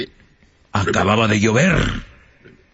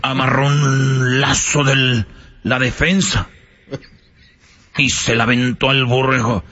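usual speaking voice

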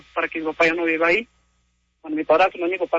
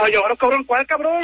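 higher, heated comeback; angry retort; 5 semitones higher than usual. Real, not acted. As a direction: bristle back at the insult. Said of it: "¿por qué me hablas así?".

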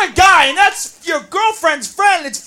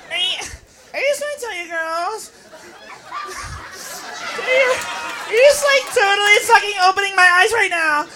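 tipsy gushing; 2 semitones higher, 5 dB quieter than usual. Acted. Drunk girl gushing.

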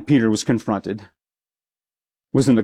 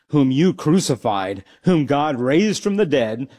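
bold address; 2 semitones higher than usual. Retold or imitated. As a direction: declare it boldly to the rulers. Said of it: "said to them".

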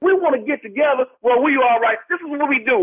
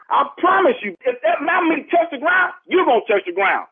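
heated threat; 3 semitones higher than usual. Real, not acted. Victim threatens neighbor over meat.

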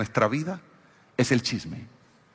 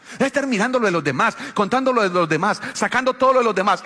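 fast preaching rebuke; 5 semitones higher, faster than usual. Real, not acted. Preaching rebuke, rising run.

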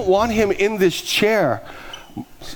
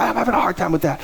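higher-pitched retort in her voice; imitated complaint; 4 semitones higher than usual. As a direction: echo it back as a higher, put-on grumble. Acting the woman's complaining answer.

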